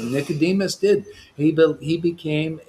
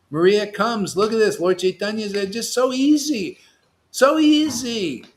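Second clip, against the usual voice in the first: higher-pitched, carried away with enthusiasm; excited preaching; 6 semitones higher than usual. Real, not acted. Preacher marvelling that an ordinary girl is delivered, excited. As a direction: gush with delight at how easy it is. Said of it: "I just get too excited".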